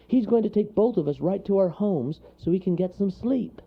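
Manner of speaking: high, lively explanation; chirpy storybook creature; eager little character. A narrator's reading. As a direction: pipe up cheerfully to reassure. Wharton reassures in character voice.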